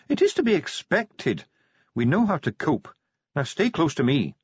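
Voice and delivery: high, precise dwarf voice; formal, high-pitched dwarf character; stiff dwarf official. Acted. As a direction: instruct them firmly as a high-voiced dwarf. Plays Ardent the dwarf.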